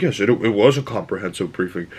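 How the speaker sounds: lightly imitated self-satisfied voice; mildly pompous mock agreement; proud of himself. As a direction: put on a touch of smug pride. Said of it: "so proud of himself".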